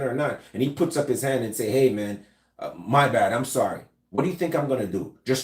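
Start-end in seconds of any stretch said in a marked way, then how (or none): 1.7-3.8 non-threatening apology. Shown as a demonstration. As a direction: back down gently, hands up. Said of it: "I want to de-escalate".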